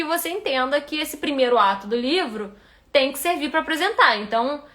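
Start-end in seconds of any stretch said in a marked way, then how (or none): none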